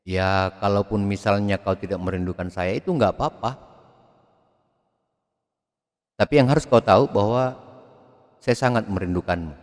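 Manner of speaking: lifting on nggak and yang like a tender plea; lilting, coaxing lover's line; romantic inflection. Shown as a demonstration. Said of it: "kita banyak dipengaruhi oleh gaya-gaya infleksi". (intonasi merayu yang naik-turun)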